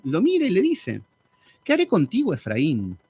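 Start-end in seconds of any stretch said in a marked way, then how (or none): 1.6-3.0 indignant God. Acted. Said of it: "Dios así como indignado".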